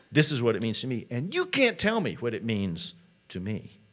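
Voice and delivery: a fed-up student exploding at the teacher; angry student. Retold or imitated. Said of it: "And he starts getting mad".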